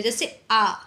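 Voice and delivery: "आ" said with the mouth opened wide, long and drawn out; open vowel demo. Shown as a demonstration. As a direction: stretch "आ" wide open for the class. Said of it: "मेरे साथ आप लोग बोलो". (मुंह पूरा खोलकर "आ" बोलना)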